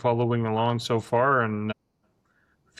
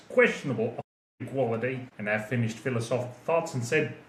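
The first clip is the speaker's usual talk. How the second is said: put-on Australian accent. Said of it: "in my best Australian accent".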